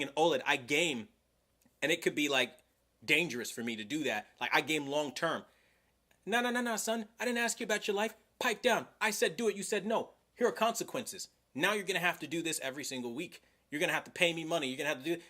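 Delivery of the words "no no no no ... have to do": mock a controlling busybody ordering you around; bossy controlling voice. Hint of a bossy intruder ordering a viewer. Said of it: "what if I started talking like that".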